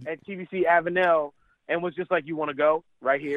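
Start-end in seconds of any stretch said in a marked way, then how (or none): 2.2-3.4 retold shout daring him to fight; lightly shouted dare to his golfer; mock fight challenge. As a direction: bark it like picking a fight.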